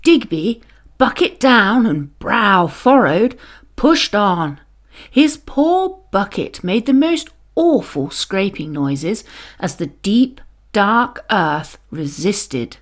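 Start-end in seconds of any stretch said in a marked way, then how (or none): none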